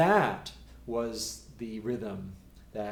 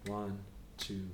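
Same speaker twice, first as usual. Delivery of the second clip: steady count; 3 semitones lower, 10 dB quieter than usual. Shown as a demonstration. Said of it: "Until it becomes so easy and we don't speed up".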